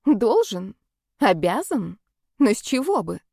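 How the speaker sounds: mocking, scoffing echo; sarcastic inner voice. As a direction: scoff at the hope. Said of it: "с сарказмом хмыкнул противный внутренний голос".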